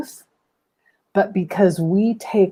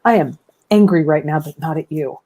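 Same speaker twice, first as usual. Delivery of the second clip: calm reassuring parent. Shown as a demonstration. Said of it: "You've gotta keep the most neutral tone".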